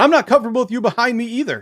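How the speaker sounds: put-on, very high, upset freaked-out voice. Retelling what a woman said when she freaked out again: retelling a woman freaking out. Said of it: "she freaked out again and said".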